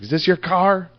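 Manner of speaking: high-pitched mock yell, no real volume; retold yell. Imitating the lady who confronted him over his car, mock yell. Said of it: "She, like, yelled at me".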